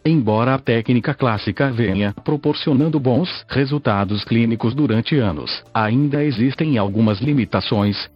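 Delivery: even, machine-read text-to-speech narration; synthesized voice. Real, not acted. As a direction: read it like a computer voice. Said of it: "falo através desta voz sintetizada".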